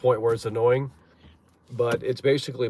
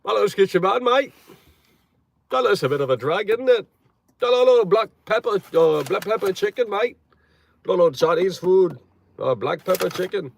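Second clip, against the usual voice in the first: put-on higher, louder caricature British accent; mock British accent; 8 semitones higher, 6 dB louder than usual. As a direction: try to pass as a British visitor, hammed-up. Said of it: "walk in there with that accent".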